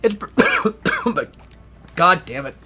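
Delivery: coughing, choking on spit. Real, not acted. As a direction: choke and cough mid-sentence. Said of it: "I'm choking on again".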